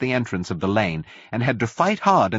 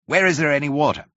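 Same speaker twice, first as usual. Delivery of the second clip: higher-pitched, pressing question; raised, anxious appeal; urgent plea; 7 semitones higher, 3 dB louder, faster than usual. A narrator's reading. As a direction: ask urgently for help for a dying man. Man running up, urgent plea.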